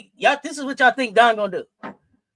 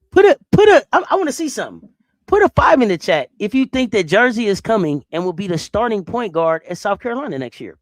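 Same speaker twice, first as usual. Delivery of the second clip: loud call to the chat; 7 dB louder than usual. Real, not acted. Streamer calling chat for a vote, loudly. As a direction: shout it out to the viewers.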